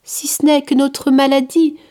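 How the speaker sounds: put-on a kind outcast reassuring a curious child; gentle leper. The leper tells the boy Curius why people flee, gently insisting.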